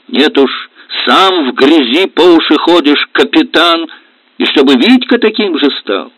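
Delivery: high, loud scornful rebuke; wife mocking her husband's filthy job; angry retort. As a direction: throw it back at him. Lida quarrels with husband.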